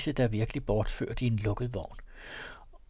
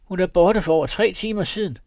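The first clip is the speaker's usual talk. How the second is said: higher, louder refined woman; finer voice; 7 semitones higher, 6 dB louder than usual. A narrator's reading. Woman inside claiming the girl left, finer voice. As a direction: claim she is long gone. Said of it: "med en anden og finere stemme".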